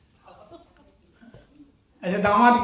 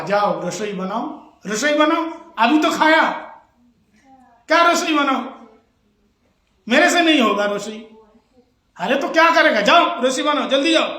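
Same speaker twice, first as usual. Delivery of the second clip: mock scolding; 3 semitones higher than usual. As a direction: fake a stern telling-off, pitched up. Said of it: "हम तुमको डांटेंगे झूठ मूठ के".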